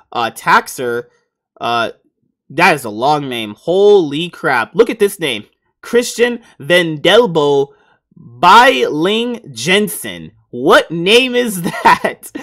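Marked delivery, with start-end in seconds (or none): 3.6-12.3 amazed disbelief. Real, not acted. Reading out an absurdly long name.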